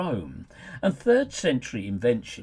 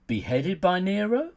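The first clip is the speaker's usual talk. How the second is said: pitched up, louder rhetorical question; mock incredulous question; 6 semitones higher, 3 dB louder than usual. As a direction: ask it as if you could believe it, then undercut it.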